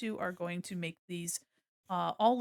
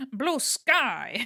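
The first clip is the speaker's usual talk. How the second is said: loud, big character voice with "sky" drawn out; 2 semitones higher, 8 dB louder than usual. Answering a request to say blue sky like Clayface: Clayface voice. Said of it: "say it like Clayface says Lady Gaga".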